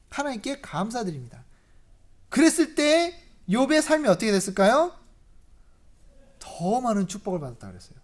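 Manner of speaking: normal talking voice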